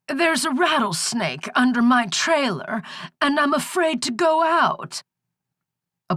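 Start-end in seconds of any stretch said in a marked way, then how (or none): 0.1-5.0 put-on high, frightened old hag; a scared old woman calling for help; croaking old crone. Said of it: "the croaking was starting to hurt her throat".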